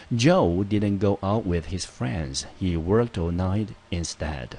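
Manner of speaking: Joe didn't go out with his friends, read very slowly and clearly; slow example read. Shown as a demonstration. Teacher rereading the example sentence, slow and clear. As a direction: read it slow and deliberate for learners. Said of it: "我们再看一遍".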